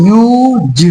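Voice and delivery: यूज drawn out and split as "yoo-juh"; यूज in two slow parts, "yoo" and "j"; reading of use. Shown as a demonstration. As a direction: stretch यूज, then release the final j separately. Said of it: "क्या पढ़े इसको".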